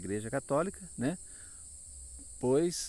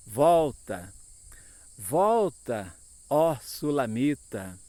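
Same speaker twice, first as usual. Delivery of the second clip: loud, drawn-out call; 6 dB louder, slower than usual. Retold or imitated. Preacher reads the call to the Sulamita, calling out. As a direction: call her back, stretching each word. Calling verse quoted from scripture.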